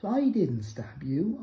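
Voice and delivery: slow, drawn-out mocking denial; smart mocking denial. Quoting John's smug phone denial to him, slow and mocking. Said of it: "your little smart words up in the phone".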